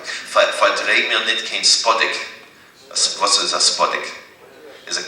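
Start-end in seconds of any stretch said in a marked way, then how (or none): 0.0-2.3 slow careful. Shown as a demonstration. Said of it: "teacher models Yiddish phrase".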